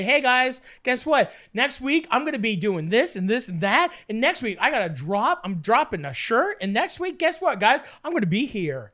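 mock influencer announcement to camera; content creator. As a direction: plug it like an upbeat vlogger. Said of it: "You talk to a camera and you say".

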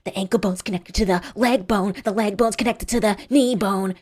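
pinched, hateful chant; furious distorted voice. A narrator's reading. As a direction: chant it through a pinched nose, seething. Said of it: "she said furiously, her voice distorted by hatred".

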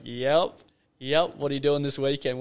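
loud, punchy imitation of an insistent mate; retold eager invitation. Mate pitching a weekend gig by phone, eager. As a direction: play the keen mate, loudly confirming.

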